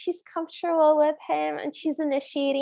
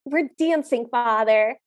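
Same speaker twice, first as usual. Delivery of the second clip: mock teenage crankiness, dropping on the last word; cranky teenager; 4 semitones lower than usual. Prince to his meddling father, mock cranky teenager. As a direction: brush a parent off, lightly acted. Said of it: "cranky teenager".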